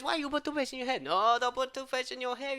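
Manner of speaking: lightly voiced Italian-style friend; a hint of fussy Luigi; Luigi's voice. Quoting friend Luigi's warning, in a lightly put-on voice. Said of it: "My friend Luigi says".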